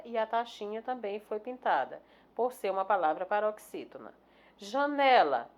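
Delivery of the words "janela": "Janela" with weight on "ne"; stress on middle syllable. Shown as a demonstration. Teacher naming the tonic syllable, "Janela" stressed on "ne". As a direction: lean on the "ne" in "Janela". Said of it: "sílaba tônica né".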